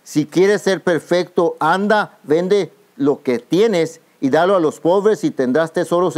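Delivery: slow, weighty words of Jesus; slow solemn Jesus. Acted. Jesus tells the rich young man, slow and solemn. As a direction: lay each word down slowly like Jesus speaking. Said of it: "Jesús le dijo".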